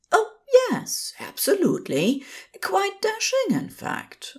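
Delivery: high, tumbling nervous rush; flustered babble. A narrator's reading. Flustered lifeguard gushing praise at a handsome man, high babble. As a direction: gush it out before you can stop. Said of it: "Aziraphale babbled".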